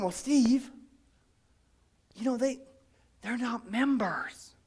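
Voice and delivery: lightly voiced objecting churchgoer, dropping soft; a hint of a reluctant member muttering objections; mild imitation of a grumbling deacon; grumbling church member.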